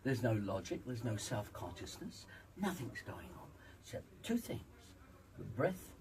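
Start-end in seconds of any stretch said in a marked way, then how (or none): 2.6-5.9 whispering. Real, not acted. Emphatic aside.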